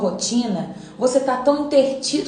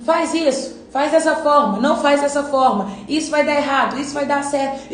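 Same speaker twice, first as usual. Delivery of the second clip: bossy crowd; 3 semitones higher than usual. Pretend. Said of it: "um público que diz assim".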